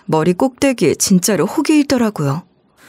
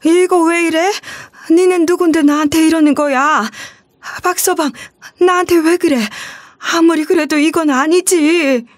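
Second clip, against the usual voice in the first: put-on high, panicked old mother pleading; scared elderly mother begging; frightened mother; 7 semitones higher than usual. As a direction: plead in fear, voice raised high. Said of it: "겁에 질린 엄마 목소리가".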